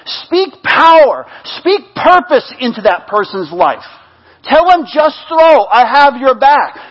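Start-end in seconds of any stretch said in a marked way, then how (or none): 4.5-6.8 loud, raised preaching voice; fervent exhortation. Real, not acted. Preacher urging people to encourage others, loud and fervent. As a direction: drive it home with force.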